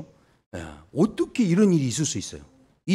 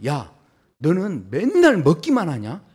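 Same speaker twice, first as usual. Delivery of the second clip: mock irritated scolding; 3 semitones higher, 4 dB louder than usual. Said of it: "뭐라고 신경질을 냈냐?".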